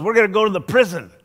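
high and loud, proud reveal; cheerful announcement. Retold or imitated. Driver springing the prison trip on the pastor, upbeat and loud. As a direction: drop the news brightly, pleased with himself.

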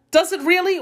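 very high, wondering question; feigned surprise. Acted. Jackal hearing the cage is locked, mock surprise.

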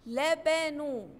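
لبنو drawn out slowly for the class; slow demo word. Shown as a demonstration. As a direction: stretch out لبنو so children hear each sound. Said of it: "الكلمة اللي بعدها بتقول".

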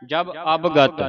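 ਜਬ ਅਵਗਤ run together, jab-ab-gat; joined reading. Shown as a demonstration. Teacher shows how to read it, ਅਵਗਤ joined as ab-gat. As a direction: keep ਅਵਗਤ whole, as ab-gat. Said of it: "ਇਕੱਠਾ ਹੀ ਉਚਾਰਨ ਕਰਨਾ".

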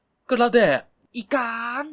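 slow, high, loud mocking jab; mocking drawl. Narrator mocks his coy friend with a slow sneer. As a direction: stretch it out to mock him. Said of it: "บอกได้คำเดียวว่า".

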